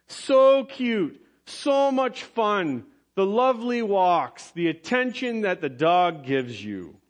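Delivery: high, gushing praise, slow on so much fun; doting dog lover gushing; gushing over pets. Acted. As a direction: coo fondly over your favorite dog.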